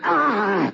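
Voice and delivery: high sharp cry; high anguished outcry. Acted. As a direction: let out a pained cry. Frenzy before the murder.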